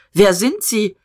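a curt, hostile demand; snapping at him. Acted. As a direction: bark the question at a stranger. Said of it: "Diederich herrschte ihn an".

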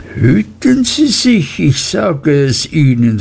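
a shrill threat thrown across the room; warning Uriah. Acted. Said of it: "rief Uriah mir wieder warnend zu".

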